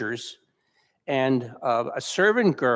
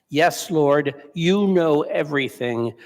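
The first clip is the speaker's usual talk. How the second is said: hurt protest; 3 dB louder than usual. Retold or imitated. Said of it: "Peter is really hurt and protests".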